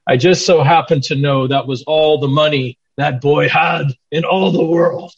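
lightly imitated Scottish accent; Boyd Nicholson. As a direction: quote him with a hint of a Scottish accent. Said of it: "with his Scottish accent".

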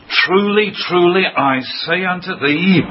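TRULY, TRULY high and firm; a lifted, solemn stress on each "Truly"; emphatic. Retold or imitated. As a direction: lean on both "Truly, truly" before "I say unto thee". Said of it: "It's an emphatic word".

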